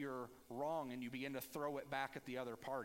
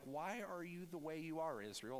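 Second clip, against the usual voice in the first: exasperated question; 2 semitones higher than usual. Retold or imitated. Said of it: "that's what I wanna say to them".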